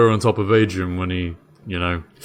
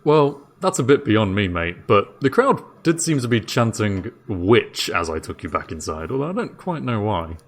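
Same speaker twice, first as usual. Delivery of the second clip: bewildered jailer, thinking it through aloud; Dave the jailer; 3 semitones higher than usual. Acted.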